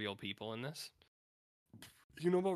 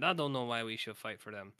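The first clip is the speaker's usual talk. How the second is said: quoting Johnny. Retold or imitated. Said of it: "He said".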